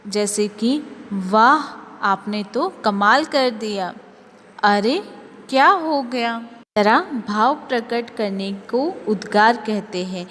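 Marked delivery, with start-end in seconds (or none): 1.1-3.9 admiring exclamation. Shown as a demonstration. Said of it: "भावों को प्रकट करने के लिए". 4.6-6.5 surprised exclamation. Shown as a demonstration. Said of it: "भावों को प्रकट करने के लिए".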